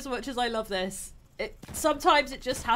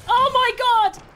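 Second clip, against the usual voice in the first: high, loud cry of alarm; real gamer's shout of disbelief; shocked shout; 9 semitones higher, 6 dB louder than usual. Real, not acted. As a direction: yell it in panic. Reacts to attack in game.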